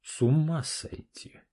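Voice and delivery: slow, amazed exhale of the words; breathed out in shock. Acted. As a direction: let it out in disbelief. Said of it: "выдохнул Паш". (потрясённо, на выдохе)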